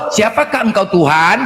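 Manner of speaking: slow, formal reverent question; mild mock reverent question; polite reverent version. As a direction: ask it slowly and reverently. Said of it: "Ini kok kau tahu".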